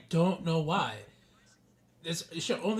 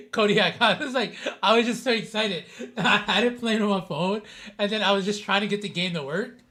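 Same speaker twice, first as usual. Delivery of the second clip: laughing while talking; 3 semitones higher, 5 dB louder than usual. Real, not acted. Laughing while explaining to viewer.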